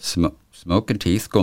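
slow, giggling through the made-up name; laughing. Pretend. Teasing her friend with a laughing made-up name. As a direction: laugh while coining a silly brand. Joking fake Swedish product name.

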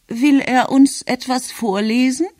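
high-pitched grandmother asking; puzzled grandmother. A narrator's reading. Grandmother asks about the man with the paper, puzzled and high.

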